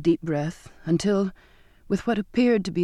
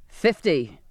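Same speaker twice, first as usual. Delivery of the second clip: insistent; 2 semitones lower than usual. A narrator's reading. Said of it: "the captain insisted".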